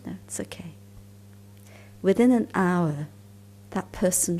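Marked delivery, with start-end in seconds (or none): 0.1-0.7 detached reply. Retold or imitated. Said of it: "I was very detached, very free".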